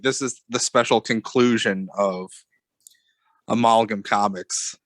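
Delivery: nasal, under the weather; stuffy sick voice. Real, not acted. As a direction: talk through a blocked nose. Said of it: "nasally under the weather voice".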